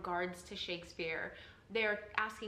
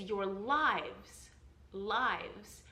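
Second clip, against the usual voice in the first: "lives" leaned on and drawn out; stress on LIVES; much slower than usual. Shown as a demonstration. Actor teaching meter shows the stressed syllable, stress on "lives". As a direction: land firmly on "lives", the second syllable. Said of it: "What you're stressing is".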